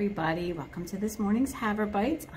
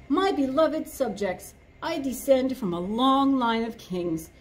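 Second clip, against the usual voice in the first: pompous lion king; 4 semitones higher than usual. Acted. Lion's pompous campaign speech.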